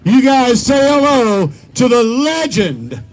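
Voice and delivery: slow drawn-out arena call; hype announcer. Real, not acted. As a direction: build it up for the legend. Announcer introducing legend.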